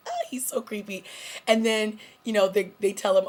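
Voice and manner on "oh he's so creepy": breathy whisper of disgust; creepy whisper. Pretend. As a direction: whisper it like he's right behind you. Viewer reacting to creepy villain.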